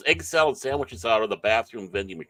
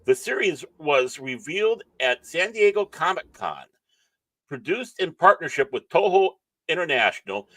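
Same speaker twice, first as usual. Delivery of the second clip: lifted, punchy presenter reading; emphatic, hyped article read; article read-aloud; 4 semitones higher, 4 dB louder than usual. Real, not acted. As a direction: read it out like an entertainment news item.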